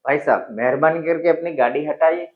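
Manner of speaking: courteous rising plea; humble polite request. Shown as a demonstration. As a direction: ask the driver kindly. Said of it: "request से बोलेंगे".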